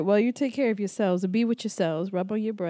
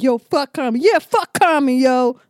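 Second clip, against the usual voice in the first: mock pillow talk; 3 semitones higher, 7 dB louder than usual. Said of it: "That's our pillow talk".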